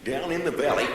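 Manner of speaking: lightly voiced old Western sidekick; Walter Brennan voice. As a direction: do a creaky old-timer saying down in the valley. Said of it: "Walter Brennan talks like this".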